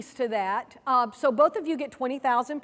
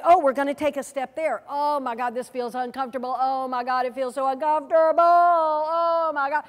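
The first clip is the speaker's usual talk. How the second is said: mock panic. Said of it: "and we say".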